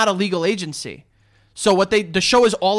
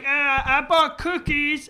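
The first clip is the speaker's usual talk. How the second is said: mock nervous guy; 7 semitones higher, much slower than usual.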